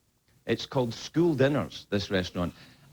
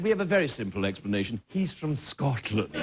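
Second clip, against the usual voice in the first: posh friends; 5 semitones lower than usual. Retold or imitated. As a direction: do the posh schoolfriends explaining. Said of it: "They said".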